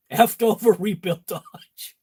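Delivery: repeats the punchline through a laugh; laughing retelling. Real, not acted. To viewers, recalling the joke while laughing. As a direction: chuckle through the joke again. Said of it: "I thought that was a good one".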